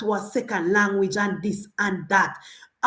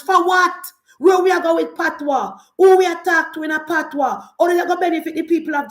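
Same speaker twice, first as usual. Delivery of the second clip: higher, louder outraged questions; indignant outburst; 5 semitones higher, 3 dB louder than usual. Real, not acted. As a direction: hurl the questions at the listeners. Ranting again against Patois.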